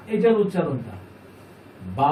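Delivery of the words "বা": বা with the aa held long; long madd. Shown as a demonstration. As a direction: draw out the vowel of বা evenly. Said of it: "এক আলিফ মাদের ব্যবহার".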